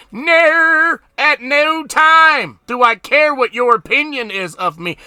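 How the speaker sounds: high, loud defiant outburst; acted angry yell of not caring; defiant shout. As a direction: throw it back at everyone who judged you. Acting out defiant old attitude.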